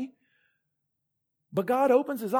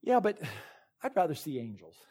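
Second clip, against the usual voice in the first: wistful aside; 4 semitones lower, 3 dB quieter than usual. Retold or imitated. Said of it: "a part of me that says this".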